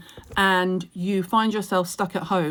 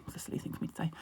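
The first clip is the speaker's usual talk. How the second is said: breathy self-deprecating whisper; whispered aside; 16 dB quieter, much faster than usual. Real, not acted. Vlogger whispering a self-correction to viewers, hushed. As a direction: whisper it to yourself, half embarrassed.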